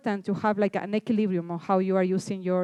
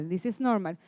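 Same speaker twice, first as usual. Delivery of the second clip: repeated softly and lower, to calm them; softer reassurance; 2 semitones lower, 4 dB quieter than usual. Shown as a demonstration. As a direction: say it again gently, as reassurance.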